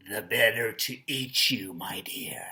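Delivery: low, menacing storybook wolf; scary wolf. Shown as a demonstration. Teacher playing the wolf threatening to eat the child, scary low voice. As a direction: drop low and fade to a whispery threat. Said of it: "And it sounds scary".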